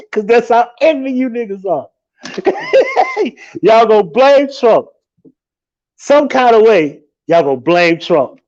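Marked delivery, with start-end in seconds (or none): 0.1-3.6 high laughing yell through the words; cracking up mid-rant; laughing shout. Real, not acted. Laughing while ranting at viewers. 3.6-7.0 slow, emphatic "blame" pressed down; drawn-out taunt. Real, not acted. Mocking prediction to the audience.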